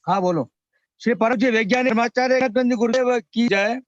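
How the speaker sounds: ordinary talk, nothing marked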